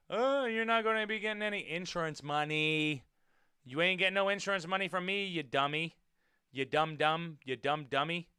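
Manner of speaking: lightly acted sing-song jeer; mock taunting. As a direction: tease them like a mocking driver. Voices a driver taunting failed scammers.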